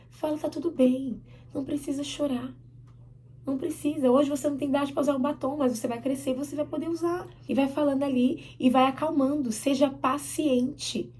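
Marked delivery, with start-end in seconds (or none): 0.4-7.3 lightly acted reassurance, raised pitch; consoling a child. Mother consoling child too young for lipstick, reassuring. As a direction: patiently comfort a crying child. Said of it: "Pega essa criança e console ela".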